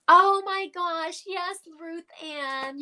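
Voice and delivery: high, slow, loud gasp of recognition; light up at a familiar name; stretched, delighted oh my gosh; delighted surprise. Real, not acted. Sudden recognition of a spirit.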